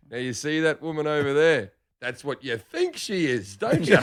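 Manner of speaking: hushed, measured nature-host delivery; wildlife documentary voice. Retold or imitated. Dad quizzing his son about the woman, in a nature-show voice. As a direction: explain it calmly like a documentary. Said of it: "like a fucking guy doing a wildlife program".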